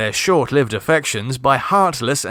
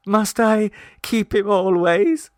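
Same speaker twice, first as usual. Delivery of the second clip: high, slow mournful question; dolefully; 8 semitones higher than usual. A narrator's reading. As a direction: ask it slowly, sorrowful. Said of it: "asked Rosemarie dolefully".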